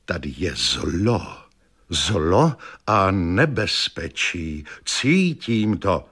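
slow, dark, mock ominous seer voice; doom-laden hint of a clairvoyant, slowed right down; ominous fortune teller. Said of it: "povídá". (zlověstná věštkyně, pomalu a temně)

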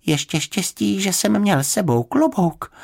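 high little bear, catching his breath; understated breathless relief; gasping for breath. A narrator's reading. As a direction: speak high, as if winded. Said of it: "lapal po dechu".

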